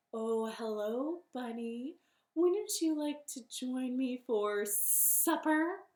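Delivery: slow, drawn-out snake voice; snake character. Acted. Snake invites bunny to supper.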